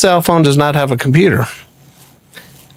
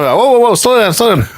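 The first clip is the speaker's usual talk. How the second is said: halting interruption; 5 semitones higher than usual. Retold or imitated. Man stopping a fast-talking caller, retold interruption. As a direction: cut in on a fast talker.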